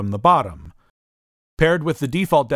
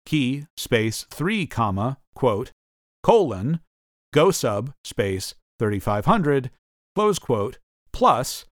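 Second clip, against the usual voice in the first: dictating; slower than usual. Shown as a demonstration. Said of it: "define the function keys F one and F three as follows".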